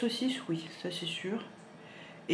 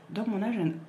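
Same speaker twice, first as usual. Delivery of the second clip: hiccuping mid-sentence; speaking through hiccups; 3 semitones higher, 3 dB louder, faster than usual. Real, not acted. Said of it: "Excusez-moi, j'ai le hoquet".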